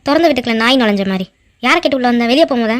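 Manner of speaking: lightly voiced scornful old granny; grumpy grandmother. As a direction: shoo him off like a cranky old woman. Grandmother voice, ஆத்தா. (வெறுப்புடன் பேசும் பாட்டி)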